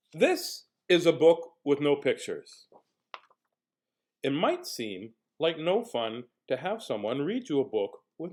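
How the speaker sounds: put-on slow, deliberate reading to children; storybook read-aloud. Reader tells children how the book works, slow and deliberate. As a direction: draw out key words with big pauses.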